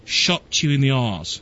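slow, put-on Australian accent that still sounds British; failed Australian accent. Host imitates the co-host, but his Australian accent sounds British. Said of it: "No, it's still British".

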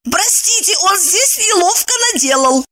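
high flustered apology; frightened cry. Acted. Housekeeper caught by the master, high and scared. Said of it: "испуганно закричала".

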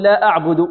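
"لا" held short of the long "يا" before it; inconsistent madd, wrong. Retold or imitated. Teacher showing a common error, uneven madd lengths. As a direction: recite "لا أعبد" with a brief two-count "لا". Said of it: "هذا خطأ".

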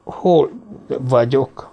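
very slow, groggy question; dazed. Acted. Vaughan wakes in the car, asking dazed and slow. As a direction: ask as if still half-drugged. Kába tekintettel.

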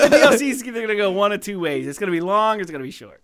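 high, loud mock sportscaster voice; football announcer. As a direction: parody a pompous game commentator. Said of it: "yeah, you're like".

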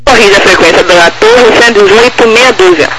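tinny distant radio voice; radio transmission. Real, not acted. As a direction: heard over the aircraft radio.

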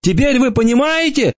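very high, squealing hopeful cry; squeaky high-pitched pleading voice; hopeful wail. A narrator's reading. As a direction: yelp it with desperate hope. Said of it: "с надеждой в голосе завопил червь".

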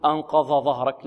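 أنقض ظهرك with ظ for ض; student's ظ mistake. Retold or imitated. Teacher quoting a student's error, ض said as ظ. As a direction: merge ض into ظ in أنقض. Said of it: "طالب يقول".

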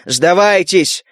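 slow, drawn-out call to surrender; roaring rallying call. Acted. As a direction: stretch the word out to the enemy. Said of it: "И обратился к солдатам".

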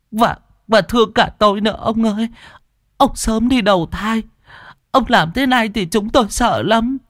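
put-on high, quavering old widow begging and wailing; a widow kneeling, begging her dead husband's ghost; old woman wailing. A narrator's reading. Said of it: "vái bù lu bù loa".

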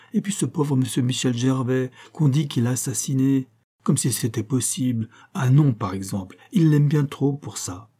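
a distressed sister pressing her case; agitated young woman. Acted. Susan pleading for Michel.

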